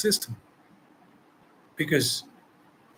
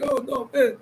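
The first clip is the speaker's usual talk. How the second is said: mock frightened man; 9 semitones higher than usual. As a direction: mimic a man shrinking back. Men voiced as afraid.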